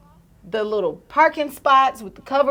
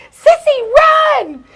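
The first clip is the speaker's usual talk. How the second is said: high, loud retold shout; acted-out frantic call; urgent warning; 5 dB louder than usual. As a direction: yell to a sister to flee. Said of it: "And so I tell her".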